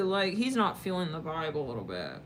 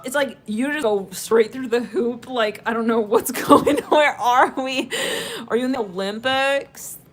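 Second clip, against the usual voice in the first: normal talking voice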